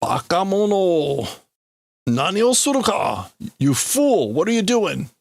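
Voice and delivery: hammed-up indignant scolding, pitch swooping up; yelling. Reader acting out a man yelling at the admiral, indignant. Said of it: "this guy yelling at the admiral".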